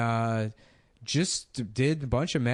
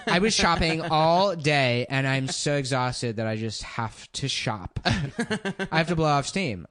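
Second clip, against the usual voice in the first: put-on slow, laughing ditzy girl; mock a spoiled shopper; valley girl voice; slower than usual. Mocking shop girls.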